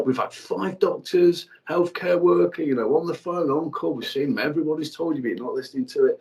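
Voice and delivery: exasperated outburst at wife ignoring doctors; losing it. Retold or imitated. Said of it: "I lost my shit".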